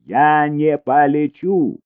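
high, loud and slow, every word dragged out; shrieking refusal. A narrator's reading. Elina refuses to fly, screaming loud. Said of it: "завопила она".

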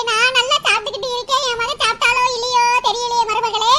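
low, mock-mournful wail; a mother-in-law's hammed-up lament; lament for son. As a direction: grieve dramatically over her son.

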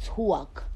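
"talk" with a rounded "twaw" sound; "twalk" accent. Shown as a demonstration. Streamer showing her mocked accent, "talk" said as "twawk". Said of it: "y'all say that we say stuff".

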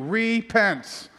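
"Repent." said sternly, alone, with a falling close; stern one word. Shown as a demonstration. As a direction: land it like a verdict. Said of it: "so I had to say it like that".

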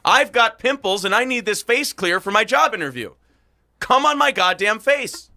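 high, loud, hammed-up complaint; a mock scolding woman, high and loud; mock indignant woman. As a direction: play her as outraged and demanding. Voicing the trainer's complaint.

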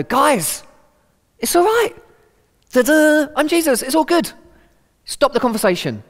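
high, loud, hammed-up "ta-da" announcement; mock triumphant Jesus. Jesus mock-announcing himself to grieving friends, loud and high. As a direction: play a showy Jesus blurting out the answer. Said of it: "he just doesn't jump in and go".

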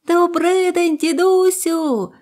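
put-on high, loud, chirpy child's greeting; little bird calling. First bird greets grandfather, high and loud. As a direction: call out brightly from the sky. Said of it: "закричала перша".

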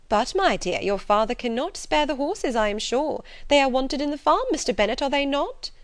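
fussy, urgent character voice; insistent mother. A narrator's reading. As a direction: appeal for backup with rising emphasis. Mother insists horses are needed.

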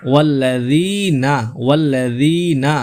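slow ওয়াল্লাযীনা, long ee then short na; one-alif elongation. Shown as a demonstration. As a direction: stretch the zee in ওয়াল্লাযীনা, release na quickly. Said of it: "এক আলিফ টানতে হবে".

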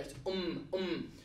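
a short "um" said twice, lightly hummed; um sound. Shown as a demonstration. Teacher sounding out "um" for the students, plainly. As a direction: sound out "um" slowly. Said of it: "It's a U M noise".

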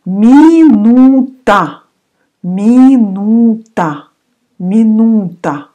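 teacher's emphatic first Минута. Shown as a demonstration. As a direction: lift Минута up slowly for the class. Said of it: "vocabulary drill".

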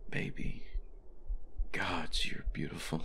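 hushed adoring whisper. Acted. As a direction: whisper it close. Whispered admiration lying down.

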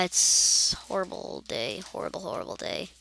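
whispered, somber; hushed sad. Real, not acted. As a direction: hush it sadly. Sombre whisper.

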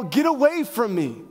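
mild preacher's mock yell; retold yell. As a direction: act out a desperate yell, held back. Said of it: "fall on their knees and yell".

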